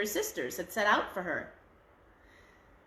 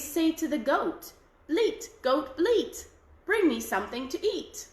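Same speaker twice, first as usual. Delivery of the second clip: put-on old woman voice; 4 semitones higher than usual. Old woman teaches the charm.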